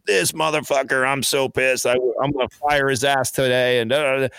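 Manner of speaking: reenacting a pissed-off phone rant; retold angry venting. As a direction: vent to a buddy, mildly worked up. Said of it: "I'd be angry".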